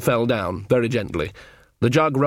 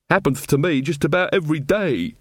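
gloomily; 5 semitones higher than usual. A narrator's reading. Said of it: "said Weaver gloomily".

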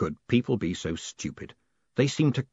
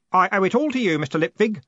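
high, louder gush of gratitude; bursting out; 10 semitones higher, 5 dB louder than usual. A narrator's reading. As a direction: burst out with eager thanks. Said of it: "Stanley burst out".

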